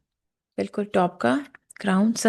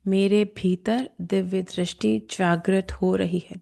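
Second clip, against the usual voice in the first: slow, measured affirmation; guided affirmation; 2 semitones lower, slower than usual. Shown as a demonstration. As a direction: state it slowly and deliberately, phrase by phrase. Leads a spoken affirmation.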